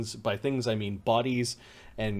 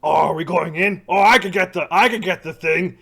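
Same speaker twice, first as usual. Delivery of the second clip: excited creature voice; 6 semitones higher, 10 dB louder than usual. Acted.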